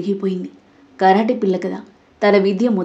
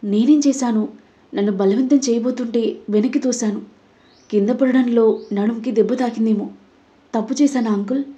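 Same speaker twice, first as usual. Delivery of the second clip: feigned innocence; 3 semitones higher than usual. Acted. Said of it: "అమాయకంగా అడిగింది".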